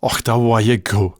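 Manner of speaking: Scots disbelief. Shown as a demonstration. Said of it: "we'll say".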